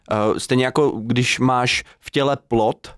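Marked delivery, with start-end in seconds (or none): 2.5-2.9 "plod" ending in a T sound; devoiced ending. Shown as a demonstration. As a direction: say "plod" as "plot". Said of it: "tak ho vyslovuješ st". („plod“ vyslovené jako „plot“)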